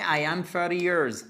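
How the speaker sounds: I am thirty years with years landing hard and falling; wrong form stressed. Shown as a demonstration. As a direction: mark I am thirty years as the mistake. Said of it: "Mais jamais". (l'erreur, years appuyé)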